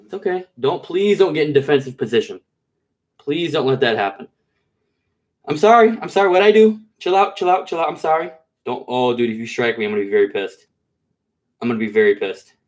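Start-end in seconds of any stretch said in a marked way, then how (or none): 5.5-8.3 startled. Real, not acted. Snake strikes, startled apology.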